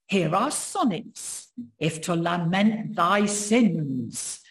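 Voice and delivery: put-on slow, grand Tudor accent reading; a proclaiming old Tudor accent. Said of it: "I wish I could do a Tudor accent for you, but I'll do my best".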